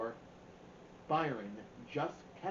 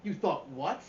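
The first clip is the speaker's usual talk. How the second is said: sarcastic question; 4 dB louder than usual. Acted. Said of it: "Byron had a way of saying stuff".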